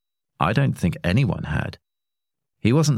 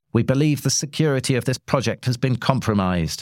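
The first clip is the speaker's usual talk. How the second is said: announcing; 7 semitones higher than usual. A narrator's reading. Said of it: "he announced".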